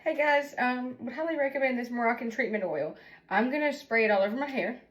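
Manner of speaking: joking sponsor pitch in the middle of a crisis; a hint of a cheerful ad voice; mock product plug. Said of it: "Is this a bad time to do a plug?".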